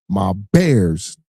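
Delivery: loud, high burst on the team name; excited team cheer. Real, not acted. Fan hyping up his Bears on stream, excited shouting. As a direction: whoop it up for your team.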